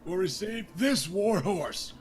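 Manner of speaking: booming, high and loud jovial king, slowed; a hearty drunk king rallying his court; King Robert. Acted. King Robert Baratheon toasting the crowd at his daughter's tourney, loud and jovial.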